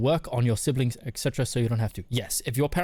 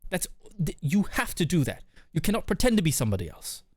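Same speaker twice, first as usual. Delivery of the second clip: put-on higher-pitched, emphatic British accent; 6 semitones higher than usual. Streamer urging a viewer to be themselves, British accent. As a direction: lay on a British accent for a pep talk. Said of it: "As I say this in a British accent".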